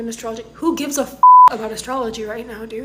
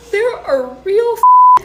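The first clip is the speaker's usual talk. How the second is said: louder, higher, dragged out in anger; slow furious outburst; 10 semitones higher, 11 dB louder, slower than usual. Real, not acted. Astrologer lashing out at her commenters, furious. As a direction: slam each word down, furious. Astrologer ranting about election.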